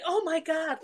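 high-pitched retold gasp of disbelief; shocked bystanders. Lunchtime onlookers seeing her kicked out, shocked. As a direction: exclaim like a startled onlooker. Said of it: "like that, you know".

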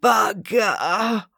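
smothered cry of dismay; muffled curse. A narrator's reading. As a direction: let out a drawn-out curse after a fall. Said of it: "let out a muffled".

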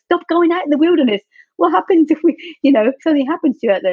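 high-pitched worried friends' voice; worried warning. Retold or imitated. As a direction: imitate alarmed friends pleading caution. Friends' alarmed warning, quoted.

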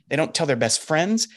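ordinary talk

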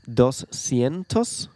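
slow, syllable by syllable; slow careful repeat. Shown as a demonstration. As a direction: sound out each number slowly. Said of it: "doscientos cincuenta".

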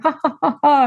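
high, spelled-out mock laugh; answering the doctor with a mock laugh, high and sarcastic; sarcastic fake laugh.

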